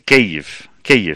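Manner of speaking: Kyiv practised the Ukrainian way; attempted Ukrainian pronunciation. Shown as a demonstration. Host trying to learn, Kyiv in careful learner's Ukrainian. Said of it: "voy a intentar aprenderlo".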